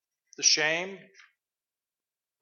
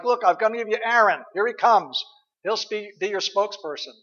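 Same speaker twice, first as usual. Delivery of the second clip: a mildly exasperated, higher God giving in; frustrated God; 4 semitones higher than usual. Pretend. God answering Moses, mildly exasperated. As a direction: sigh it out like a fed-up God. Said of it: "God in frustration is like".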